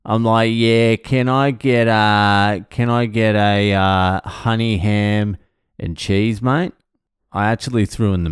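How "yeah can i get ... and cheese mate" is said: slow, drawn-out Aussie ordering voice; thick Australian accent. Acted. Aussie ordering a sub at the counter, thick Australian accent. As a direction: lay on the Australian accent, dragging out the words. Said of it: "I'm gonna fucking throw on this Australian accent hard and thick".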